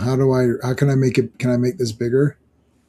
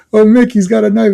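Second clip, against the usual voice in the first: higher, louder alarmed woman voice; mock frightened woman; 7 semitones higher, 6 dB louder than usual. Retelling the movie, the heroine's alarmed cry, higher. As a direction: ham up the heroine's panic. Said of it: "She's like".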